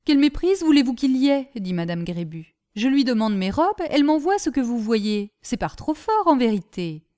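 refusing the mistake story; mild indignation. Acted. Grébu protests. (madame Grébu proteste, indignée)

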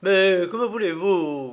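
growled challenge. Acted. Limerick to the armed intruders, growled demand. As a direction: demand it angrily. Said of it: "gronda Limerick".

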